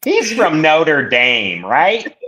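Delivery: slow, high, nasal Buffalo mom; high-pitched Buffalo accent with heavy A's; mom's thick Buffalo accent. Acted. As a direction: draw it out as a nasally Buffalo mother checking a fact. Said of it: "She's got a thick Buffalo accent".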